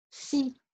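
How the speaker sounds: si with an s sound, as "see"; TI pronounced si. Shown as a demonstration. Teacher showing how T-I reads, si said "see". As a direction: say si alone, s replacing the t. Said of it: "se prononce".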